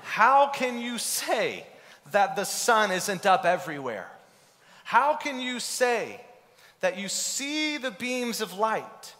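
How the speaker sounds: put-on pleading in disbelief at the child; losing your mind. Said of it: "You might lose your mind".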